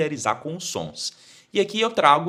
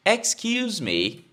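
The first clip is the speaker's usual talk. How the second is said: ordinary talk, nothing marked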